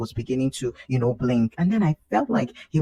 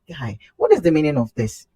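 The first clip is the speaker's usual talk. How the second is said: exasperated complaint; 5 semitones higher, 4 dB louder than usual. Retold or imitated. Mom complains to baby.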